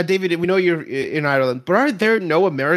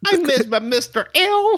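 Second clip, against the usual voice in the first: high, affected showgirl voice; hammed-up showgirl accent, breaking into a laugh; Harley Quinn; 8 semitones higher than usual. Co-host imitating the episode's showgirl, high affected accent. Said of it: "the word you're looking for is Harley Quinn".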